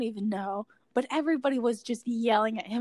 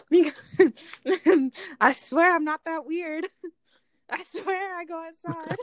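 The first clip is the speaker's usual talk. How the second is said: half-laughing, a bit louder, embarrassed; laughing while talking; 5 semitones higher, 5 dB louder than usual. Real, not acted. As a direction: laugh through the words, a little sheepish. Laughing through embarrassed confession.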